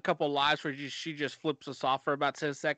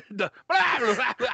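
mock blah voice; 8 semitones higher, 5 dB louder than usual. Mocking a voice with blah.

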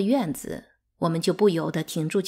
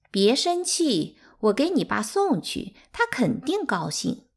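sly mocking; 6 semitones higher than usual. A narrator's reading. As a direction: taunt with a fake kind tone. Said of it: "桃花怪笑着拿起一个月饼盒说". (阴阳怪气地假装安慰)

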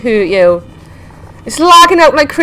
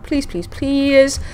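begging; 3 semitones higher, slower than usual. Real, not acted. Begging for an oxygen plant.

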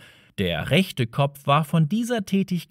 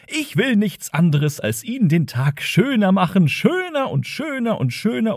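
rising higher and higher, gushing; cheery computer voice; 7 semitones higher than usual. Acted. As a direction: overeager machine getting carried away.

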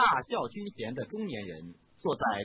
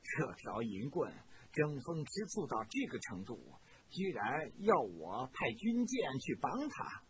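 scornful; 2 semitones lower, 7 dB quieter than usual. A narrator's reading. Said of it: "皱皱眉头说道".

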